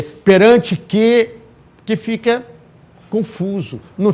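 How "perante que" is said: "perante que" stretched out very slowly; drawn-out wrong form. Shown as a demonstration. Teacher slowly repeating the wrong construction to students. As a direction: spell out the error "perante que" word by word. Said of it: "Então não posso falar perante que".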